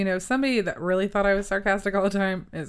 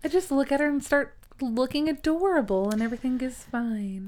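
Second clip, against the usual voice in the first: dog's voice; 5 semitones higher than usual. Pretend. Voicing the dog's thoughts.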